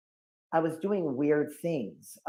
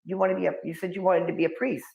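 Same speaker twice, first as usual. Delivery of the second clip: dad's baffled protest; 5 semitones higher than usual. Retold or imitated. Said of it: "He's like".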